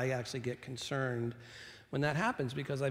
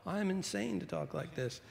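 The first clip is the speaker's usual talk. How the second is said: a hint of Paul, pitched higher; quoting the Apostle Paul; 5 semitones higher than usual. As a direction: lightly voice Paul's confession. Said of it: "I sort of feel like the Apostle Paul".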